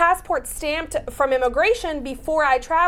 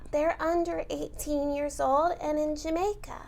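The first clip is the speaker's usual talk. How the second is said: put-on cutesy baby voice; 4 dB quieter than usual. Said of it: "say it in a baby voice".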